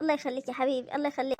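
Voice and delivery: soft, ailing thanks; subdued motherly gratitude; weakly grateful. Acted. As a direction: quietly bless the visitor from a sickbed. Ailing mother thanks visitor's wishes.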